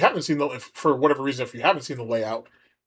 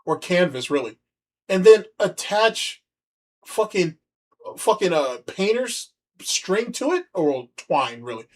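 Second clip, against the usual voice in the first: exasperated rant; 5 semitones higher than usual. Real, not acted. Ranting at clip about hanging pictures.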